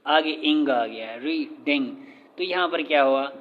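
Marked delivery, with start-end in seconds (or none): 1.2-1.9 "रीडिंग" in two beats, री and डिंग; syllable by syllable. Shown as a demonstration. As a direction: break "रीडिंग" between री and डिंग. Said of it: "दो syllable हुआ".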